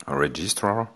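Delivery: English word with a French accent. Real, not acted. Lecturer gives the English term, apologising for the accent, French-accented English. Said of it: "désolé pour mon accent".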